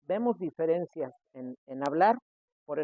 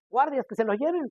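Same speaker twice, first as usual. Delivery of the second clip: mock emperador; 7 semitones higher than usual. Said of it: "como dice el de las galletas".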